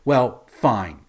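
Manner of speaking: mildly sulky, quickening retort; a touch of petulant defiance; pouty concession. Retold or imitated. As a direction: give in with a light pout, then rattle off the threat. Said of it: "pouts and stomps her feet and says".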